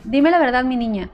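put-on calm the child down kindly; gentle coaxing. Helper kneeling to calm the lost girl, gently. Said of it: "Me trata de calmar".

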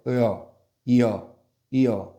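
이어 run together, i gliding into eo; 이어 with the two vowels merging; blending two vowels. Shown as a demonstration. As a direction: slide 이어 toward a single yeo sound. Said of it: "빨리 발음해 볼게요".

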